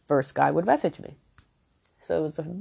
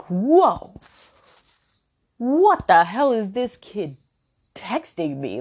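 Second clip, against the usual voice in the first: surprised; 5 semitones higher, 5 dB louder, slower than usual. Retold or imitated. Shocked at a long text.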